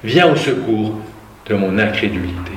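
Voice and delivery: passage lu à voix posée et portée; lecture biblique. Acted. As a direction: raconte le récit de l'Évangile à l'assemblée. Reading the Gospel aloud. (lecture de l'Évangile, ton de récit)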